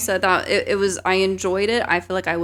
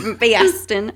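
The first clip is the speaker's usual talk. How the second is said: laughing mock Boston accent; bad Boston accent through laughter; 4 semitones higher, 5 dB louder than usual. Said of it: "worst Boston accent ever".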